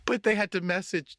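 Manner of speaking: whispered aside, choking up; a real lump in the throat, whispered; holding back tears. Real, not acted. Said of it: "see, I'm gonna cry".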